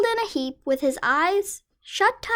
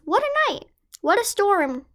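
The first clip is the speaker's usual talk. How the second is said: mole voice; 6 semitones higher than usual. Acted. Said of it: "mole mutters".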